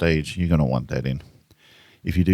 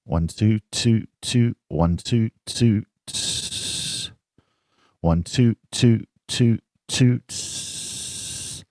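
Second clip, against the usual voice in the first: hissing sibilant tss; 5 semitones higher, much slower than usual. Shown as a demonstration. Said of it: "De-esser".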